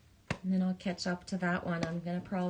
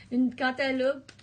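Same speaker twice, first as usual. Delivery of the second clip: "Un cantaloupe" again, higher and louder, leaning on "Un"; loud playful repeat; 5 semitones higher, 5 dB louder than usual. Shown as a demonstration. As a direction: punch "Un cantaloupe" out big and playful. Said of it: "repeats the phrase louder".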